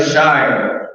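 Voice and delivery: "Shire" drawn out as shy-er with a fall; modeling pronunciation. Shown as a demonstration. Teacher having the class repeat, drawn-out shy-er. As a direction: lead the class in a long "Shire". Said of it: "You say it together".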